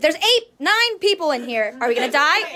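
high, loud squeal of alarm; excited. Real, not acted. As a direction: shriek it out in excited disbelief. Squealing at crowded room.

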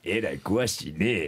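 slow, knowing tease; slow mock-knowing remark; redo of the face line. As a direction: drag it out with a smug face. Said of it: "もう一回今の顔でえらい詳しいね".

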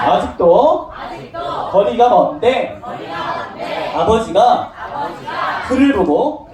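slow, drawn-out phrases with pauses for repeating; read-along scripture. Shown as a demonstration. Teacher reading verses for children to repeat, slow read-along. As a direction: lead a group recitation phrase by phrase.

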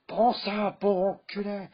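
enraged brother screaming; furious shout. Acted. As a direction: yell it as you strike.

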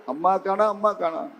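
soft, fading mock whimper; mock crying. Storyteller voices boy who lost his mother, soft mock crying. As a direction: imitate a lost child's small cry. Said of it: "ஓன்னு அழுக".

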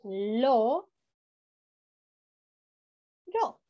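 lo and ro pulled apart with long pauses; "lo" then "ro", slow separate beats; split into syllables. Shown as a demonstration. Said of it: "Si la separamos en sílabas".

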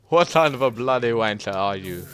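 put-on joking British accent; hammed-up British insult. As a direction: play at being British. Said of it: "offend a lot of British people by saying that".

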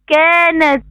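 "كانت" with the first vowel ا held long; teacher showing the long alif of "كانت"; long alif madd. Shown as a demonstration. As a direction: stretch the ā in "كانت". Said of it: "بها مد بالألف".

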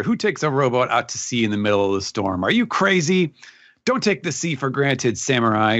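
acted scolding, pitch jumping on the challenge. Law scolding the samurai at sea, acted telling-off. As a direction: tell them off in disbelief. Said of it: "who is scolding them".

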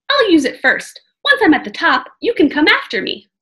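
put-on a bold kid urging caution; young girl voice. Annie's voice in read-aloud.

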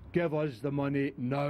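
gruff demand for cash; hard man threat. Acted. Gangster demanding the money from Kenny, threatening. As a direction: lean on him for the money. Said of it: "That's the way you're saying it".

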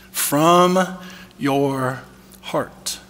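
From your heart dropped to a near whisper, heart breathed unvoiced; hushed repeat. Shown as a demonstration. Preacher repeating the verse to his listeners, hushed. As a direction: repeat it softly, almost whispered, to let it land. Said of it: "That's key".

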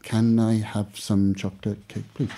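slow, careful English accent read; English accent demo. Shown as a demonstration. Teacher showing the student an English accent, slow. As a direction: model the line in an English accent. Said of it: "you just sound incredibly English".

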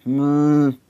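a drawn-out hum instead of an answer; Pete's grunt. A narrator's reading.

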